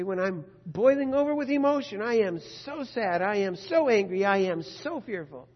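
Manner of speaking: a hint of a panicked plea; overwhelmed believer. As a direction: play someone boiling over with emotion.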